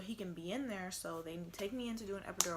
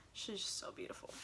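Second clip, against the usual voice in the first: a whisper, softer; 4 dB quieter than usual. Real, not acted. Mom whispering about her beautiful baby. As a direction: breathe it out in awe.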